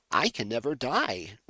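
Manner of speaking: loud, hammed-up Sonic line; bad Sonic impression. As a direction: belt it like a badly dubbed hedgehog. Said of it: "That is my bad Sonic impression".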